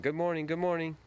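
put-on high-pitched little kid greeting; three-year-old boy. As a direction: imitate a small boy calling out good mornings. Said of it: "a three-year-old boy walking down the street".

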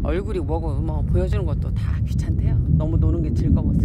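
loud calling. Real, not acted. Calling cat loudly.

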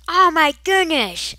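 high, loud, slow mock gasp; shocked fan. Imitating shocked Doctor Who fans, high loud gasp. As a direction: play an outraged viewer. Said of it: "are gonna be like".

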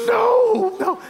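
high, loud wail of no; mock-despondent cry of dismay; hammed-up, drawn-out protest; retold despondency. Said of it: "I was despondent".

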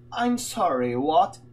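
lightly acted puzzlement, rising at the end; mock-confused query; baffled listener. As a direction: ask as if you didn't understand. Acts baffled listener in British skit.

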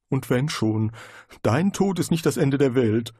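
a lightly voiced nagging conscience; a hint of a guilty inner voice. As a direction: speak as the inner voice, reproachful.

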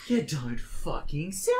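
slow, drawn-out sarcastic jab. Retold or imitated. To Glenn stating the obvious, slow sarcasm. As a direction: drip sarcasm on every word.

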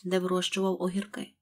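ordinary delivery

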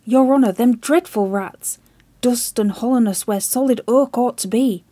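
loud, desperate pleading that keeps climbing; frantic plea. Acted. Chips frantically warning the admiral, loud desperate plea. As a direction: shout the warning, pleading for his life.

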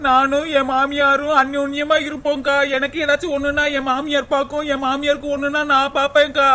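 understated weepy lament; tearful complaint. Acted. Daughter-in-law telling neighbour about sister-in-law, tearful complaint. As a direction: complain tearfully, wailing out the last word. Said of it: "நீ ஏன்டி முசு முசுன்னு அழுகுறவ".

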